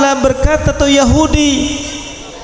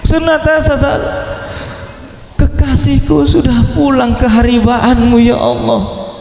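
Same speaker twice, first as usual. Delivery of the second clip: tearful lament. Retold or imitated. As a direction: mourn the beloved who has gone home.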